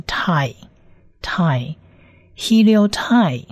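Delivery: "tai" alone, then inside "heliotai"; slow sound blending. Shown as a demonstration. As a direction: slowly model "tai", pause, then "heliotai" whole. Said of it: "所以是特的音加上I".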